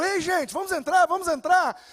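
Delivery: calling people in. Retold or imitated. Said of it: "e eu".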